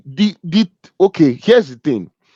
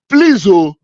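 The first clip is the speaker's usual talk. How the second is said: high, loud, drawn-out comic disbelief; exasperated outcry; 6 semitones higher, 5 dB louder, much slower than usual. Acted. Boss baffled by an employee's presidency number plate, exasperated outcry. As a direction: cry out in exaggerated dismay, stretching each word.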